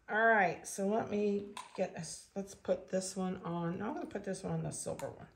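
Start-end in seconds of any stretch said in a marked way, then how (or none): none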